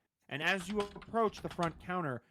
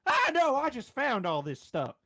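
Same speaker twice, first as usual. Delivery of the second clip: shopkeeper voice; 5 semitones higher, 3 dB louder than usual. Acted. GM voices shop owner Samantha.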